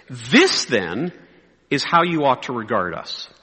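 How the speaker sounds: measured scripture reading; slow reading. Shown as a demonstration. Preacher reading Paul's letter to pastors, slowly. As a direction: read it out with deliberate pauses. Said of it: "I'm gonna read it slowly".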